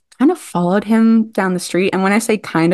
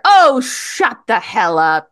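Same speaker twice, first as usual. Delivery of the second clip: drawn-out, higher-pitched mock scolding; imitated teasing; 4 semitones higher, slower than usual. Star walks in backstage on an upset actress, imitated teasing. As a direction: stretch it out as a teasing put-down. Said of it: "like, teasing her".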